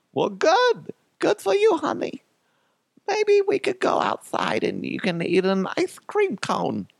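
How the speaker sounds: very high falsetto mother; hammed-up sweet mom voice; mock doting mom. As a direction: praise a child in squeaky falsetto. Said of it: "and my mom's like".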